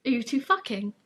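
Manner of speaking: imitating a friend with a southern accent; lightly put-on southern accent. Naz questions the two of them, southern accent. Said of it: "Don't know why he's southern now".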